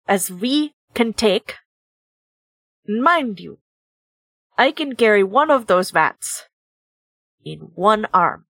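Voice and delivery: put-on lightly accented bear boss; menacing bear. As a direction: lay down demands in measured chunks with long pauses. Game player voices Husky making demands.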